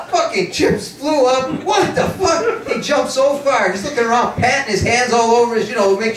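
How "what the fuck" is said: imitating a startled yell. Max jumps at the blast.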